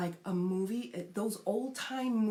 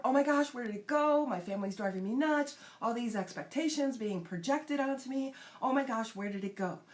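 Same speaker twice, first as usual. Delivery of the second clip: exasperated, pitched-up mock dismay; mock panic; 5 semitones higher, faster than usual. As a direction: play someone suddenly losing the thread. Acting out pendulum swing to panic.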